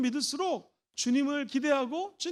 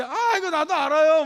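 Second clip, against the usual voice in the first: laughing know-it-all; 3 semitones higher, 8 dB louder than usual. Retold or imitated. Acting out a know-it-all reply.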